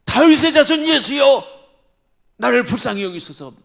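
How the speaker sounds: loud high desperate cry. Retold or imitated. Blind Bartimaeus crying out to passing Jesus. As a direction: shout for mercy across the crowd. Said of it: "소리를 지르는 거예요".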